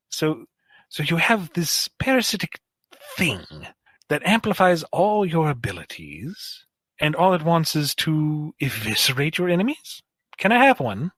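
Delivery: eager questioner, lilting and rising; Starline. Acted. Starline asking Eddie about symbiotes, eager and inquisitive. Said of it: "Starline would kind of follow along".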